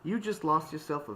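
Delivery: put-on high, loud British-accented retort; huffy parting shot, British accent. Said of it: "now I'm doing everything in a British accent".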